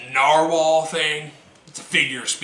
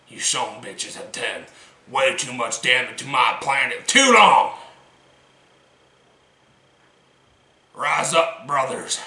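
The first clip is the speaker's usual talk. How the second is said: fiery revolutionary speech. Acted. Rallying the brothers.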